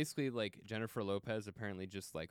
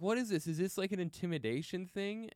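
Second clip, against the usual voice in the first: mock bewilderment; 8 semitones higher than usual. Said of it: "And I'm like".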